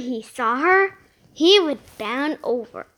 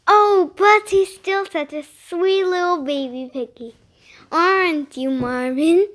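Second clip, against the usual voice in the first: put-on sweet baby talk; cooing; 3 semitones higher, 4 dB louder than usual. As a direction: coo it like to a baby. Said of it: "cooed Missus Wheeler".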